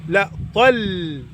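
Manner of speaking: طل said very slowly with a heavy emphatic ط; slow correct demo. Shown as a demonstration. Teacher drilling the correct heavy ط, slowly. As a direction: draw out طل, pressing a heavy ط.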